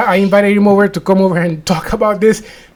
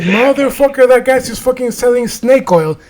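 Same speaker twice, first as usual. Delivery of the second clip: retold indignation; 5 semitones higher than usual. Retold anger at the healer.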